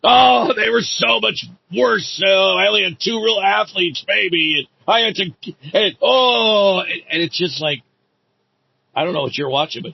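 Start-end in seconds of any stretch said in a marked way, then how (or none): 0.0-6.8 high, loud mocking whine of the boastful rival; a loud, high, hammed-up impression of the bragging coach. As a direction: ham up the rival's whiny excuses. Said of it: "Immediately starts denigrating the talent".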